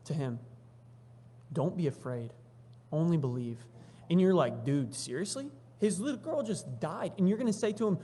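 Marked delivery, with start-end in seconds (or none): 1.5-3.7 low-key, measured reassurance; steady the father with unhurried words; acted calm, with a pause between phrases. Jesus reassures the grieving father. 4.6-8.0 acted disbelief, rising in pitch; mildly indignant bystander; incredulous protest. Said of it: "starting to get upset with Jesus".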